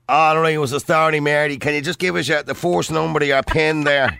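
thick, casual Irish working-class voice; strong local Irish accent. Acted. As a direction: bank clerk with a broad local accent. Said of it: "I can't do a female accent. But, and he goes".

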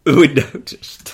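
slow, loud mock Cockney; drawn-out mock Cockney repeat; mock Cockney echo.

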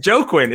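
"Joaquin" sounded out as JOE-kwin; Joaquin by spelling. Shown as a demonstration. Host defending his reading of the spelling, Joaquin said JOE-kwin. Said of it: "Is that not how it's spelled?".

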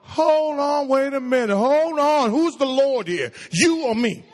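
drawn-level, halting interruption of a pleader; mock indignant. Preacher voices the Lord cutting off a demanding prayer, indignant. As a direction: put them in their place, playfully stern.

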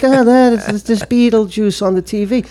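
high, amazed double take; half-awake shocked realization; stunned disbelief. Retold or imitated. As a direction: gasp it out like you can't believe your eyes. Waking to see Beetlejuice on TV.

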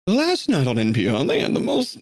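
lightly put-on British accent; a hint of a British radio host. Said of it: "me pretending those guys are, like, really British".

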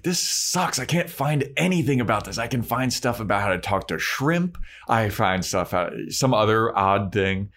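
whiny Willow. Retold or imitated. Willow whining to Oz about her failed research, exasperated. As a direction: gripe about the useless books.

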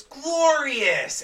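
high, drawn-out mock sung cry; Chad Gable. Imitating an awkward wrestler butting in, high and showy. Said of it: "Gable jumps in and goes".

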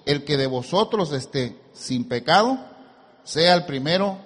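emphatic pulpit reading with weighty pauses; scripture reading. Acted. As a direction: read it out, slowing at the close. Reads scripture to congregation.

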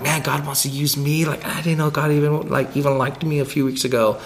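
a hint of a lonely kid marveling; Simon character. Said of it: "now Simon".

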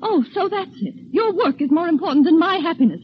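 hurt accusation. Acted. Wife's hurt outburst in quarrel.

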